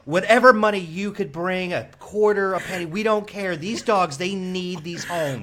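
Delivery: earnest pleading fundraiser voice, slowing down; charity telethon appeal. Pretend. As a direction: beg for donations like a telethon host. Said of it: "You sound like a charity telethon".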